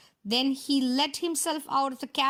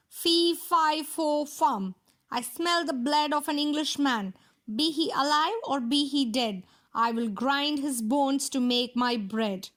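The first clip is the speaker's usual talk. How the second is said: giant roaring. Acted. Giant sniffs out Jack, a hammed-up gentle roar. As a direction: boom out the chant like a hungry giant, lightly. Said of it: "the giant roared".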